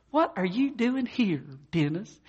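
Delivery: high-pitched imitation of an astonished mother; acted motherly surprise. Mother finds her grown son at the store, acted surprise. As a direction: exclaim it high, as a surprised mom.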